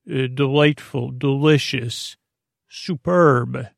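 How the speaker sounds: slow, savoring chef's-kiss tone; savoring delight. Pretend. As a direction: relish each word like a tasty dish. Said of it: "really you're saying".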